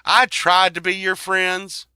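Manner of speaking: high, loud, worked-up rant as Casper; angry Casper rant. Retold or imitated. Casper telling off the bullies, high and loud. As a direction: yell at the bullies who picked on his friend. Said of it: "'Cause Casper's like".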